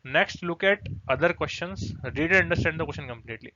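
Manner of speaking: very slow, spelled-out instruction; slow dictation. Shown as a demonstration. Teacher slowly dictating the next step to students.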